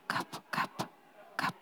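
unvoiced, softly mimicking dripping water; whispered drip sounds. Lord whispering the dripping he hears to his servant. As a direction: tick out the drips in a whisper.

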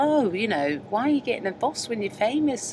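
put-on a half-blagged generic northern accent; bad northern accent. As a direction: lightly imitate Lucy's northern accent. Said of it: "I don't know really how to do a northern accent".

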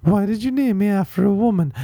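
high, complaining son voice; Terrence. Pretend. Son asking mom about his name, high comic complaint. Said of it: "that's Anne Terry's son, uh, Terrence".

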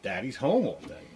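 swooping sing-song excitement; mock-elated little kid with swooping pitch; retold childish elation. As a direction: imitate a delighted small child. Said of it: "she was elated".

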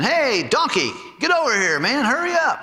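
mock rude customer shouting for service; rude local. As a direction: boss the waiter around, high and rough. Locals barking orders at waiter.

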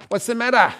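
high, loud call from the clifftop. Retold or imitated. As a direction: shout it down the cliff. Instructors calling down cliff.

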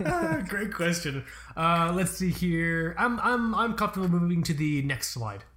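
slow, stalling corporate presenter voice; mock presenter. Podcaster fields a listener question like a slow corporate presenter. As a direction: play a presenter buying time, drawn out.

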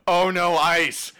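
high, loud, drawn-out wail; hammed-up cry of doom; mock panic. Retelling a doomed man seeing the ice, mock panic. Acting out a character's last cry.

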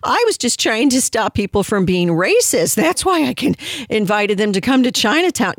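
high, sing-song mock of Pelosi pleading innocence; a lightly voiced, high-pitched Pelosi impression; mock innocent Pelosi. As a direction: play a politician protesting her innocence. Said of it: "where she was saying".

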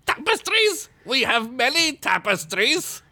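high-pitched, incredulous mock outburst; screamed movie quote. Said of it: "I heard you scream that".

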